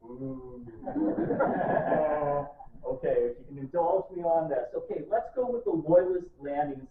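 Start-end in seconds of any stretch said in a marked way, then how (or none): 0.0-0.6 demo audience ooh. Shown as a demonstration. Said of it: "give me some audible, something like this".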